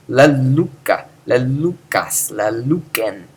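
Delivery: "la luca", "la lucas", "la lucen" leaning long on LU; stress on upsilon. Shown as a demonstration. Teacher reciting Greek perfect forms, stressed upsilon. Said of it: "whether we emphasize the u-, upsilon".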